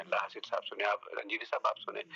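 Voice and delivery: usual speaking voice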